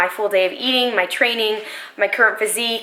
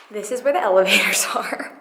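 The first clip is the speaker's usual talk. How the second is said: laughing whisper; hushed, with a giggle. Real, not acted. Whispering in stairwell.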